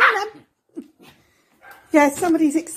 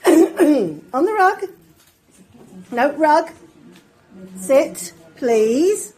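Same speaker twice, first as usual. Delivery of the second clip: firm dog commands; 4 semitones higher, 5 dB louder, much slower than usual. Real, not acted.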